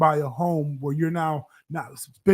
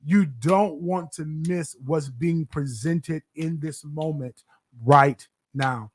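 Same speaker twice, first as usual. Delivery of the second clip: aggressive; slower than usual. Real, not acted. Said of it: "Why you say it so aggressively".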